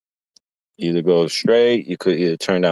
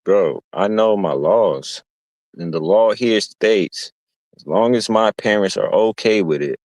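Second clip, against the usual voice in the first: know-it-all lecture; 4 semitones higher than usual. Retold or imitated. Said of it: "I'm like".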